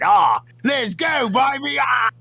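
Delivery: slow, high shouted let's go; hype shout. Acted. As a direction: roar the sign-off.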